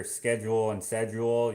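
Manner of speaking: "schedule" as "sked-jool", then "sed-jool"; two pronunciations contrasted. Shown as a demonstration. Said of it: "that's weird to hear schedule".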